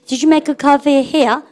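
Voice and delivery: very slow, every word spelled out for the class; teacher reads slowly so students repeat; slow model sentence. Shown as a demonstration. Teacher leads students in slow choral repeat. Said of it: "해보세요".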